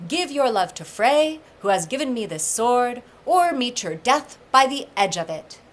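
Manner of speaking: threat. Acted. Skirnir threatens Gerda with sword.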